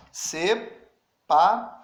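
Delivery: Separação drawn out slowly, syllable by syllable; teacher spelling out Separação slowly for the class; slow model word. Shown as a demonstration. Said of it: "Tente falar essa palavra".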